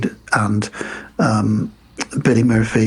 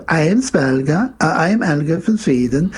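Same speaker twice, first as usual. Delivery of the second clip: put-on Swedish accent; 4 semitones higher than usual. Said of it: "the gorgeous Jamie Lee Curtis in lederhosen".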